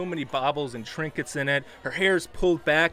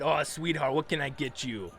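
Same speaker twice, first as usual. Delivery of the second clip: sweet barkeep. Acted. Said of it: "and said".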